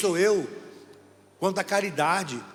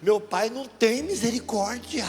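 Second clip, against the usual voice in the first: put-on child's serious voice; 6 semitones higher, slower than usual. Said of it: "Ele falou".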